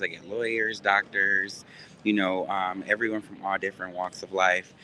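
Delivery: muffled behind a face mask; through a mask. Real, not acted. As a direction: talk through a covering mask. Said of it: "I got this mask on".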